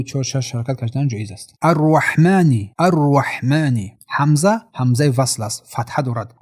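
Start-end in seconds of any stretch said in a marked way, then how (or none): 1.6-3.9 slow الرحمنی with a rolled r and clear vowels; clear articulation. Shown as a demonstration. Teacher showing clear sounds in الرحمنی, slow and distinct. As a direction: recite الرحمنی slowly, each sound distinct.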